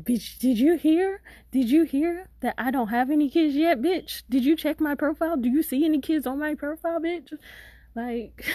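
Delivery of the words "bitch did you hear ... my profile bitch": shrill mock retort. Angry retort to scammer.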